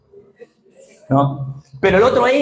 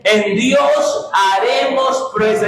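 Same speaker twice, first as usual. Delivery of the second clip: shouted declaration; much slower than usual. Shown as a demonstration. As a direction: proclaim it to the whole church. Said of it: "Dígalo fuerte".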